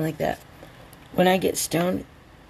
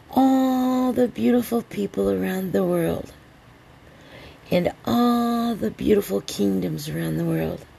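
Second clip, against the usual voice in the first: ceremonial toast. Real, not acted. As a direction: raise a grand toast, stretching the key words. Raising a toast to everyone.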